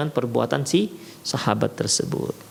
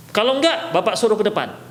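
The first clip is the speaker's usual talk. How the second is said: raised-pitch threat to a chatty pupil; stern teacher warning; 5 semitones higher than usual. Shown as a demonstration. Teacher warning chatting pupils at the back, stern higher voice. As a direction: warn them off, firm and pitched up. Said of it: "ada intonasi larangan".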